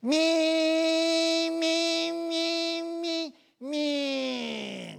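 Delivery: high, steady buzzing cicada drone; cicada cry. Retold or imitated. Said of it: "セミってのはあんな大声で鳴く".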